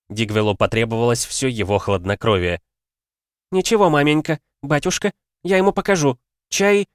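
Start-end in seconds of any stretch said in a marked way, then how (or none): 3.5-6.9 bitter defiance. A narrator's reading. Daughter defiant, showing wounds.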